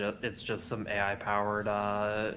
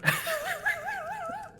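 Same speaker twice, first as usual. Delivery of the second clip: a natural laugh with no filter; just laugh in your own voice; plain laugh. Real, not acted. Replaying the laugh for friends without the voice changer. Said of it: "for the instant replay without the voice changer".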